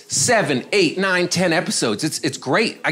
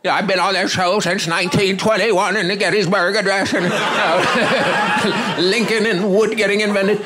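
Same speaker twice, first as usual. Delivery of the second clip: put-on higher, wobbly caricature of an older diva; indignant old actress; 4 semitones higher, slower than usual. Older actress ranting at comedian, theatrically indignant. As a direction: go off in a hammed-up old lady's outraged voice. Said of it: "This lady just goes off".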